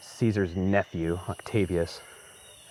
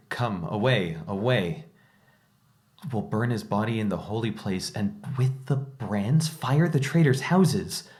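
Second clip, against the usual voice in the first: rising mob frenzy; 5 semitones higher, slower than usual. Retold or imitated. Newsreader relaying the riot, growing more frantic. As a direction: read the crowd's cries as they whip into a rage. Reading the mob's cries aloud.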